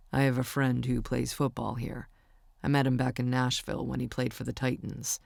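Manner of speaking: a hint of an easygoing young man; Warren's voice. Narrator voices Warren on phone.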